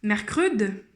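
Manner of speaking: "Mercrede" ending on a sounded d; partial word read aloud. Shown as a demonstration. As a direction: sound out mer-cre-d, stopping on the d. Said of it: "il faut ajouter le D".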